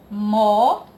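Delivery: "mó" loud and held on its own; separated syllable. Shown as a demonstration. Teacher splitting moeda for pupils, "mó" loudly isolated. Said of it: "Mas na hora de separar".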